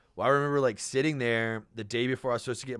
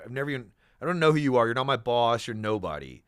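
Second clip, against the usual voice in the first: retold angry retort; 7 dB louder than usual. Snapping back at a rude headhunter, fast and loud. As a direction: rattle it off hot, putting him in his place. Retold heated phone quarrel.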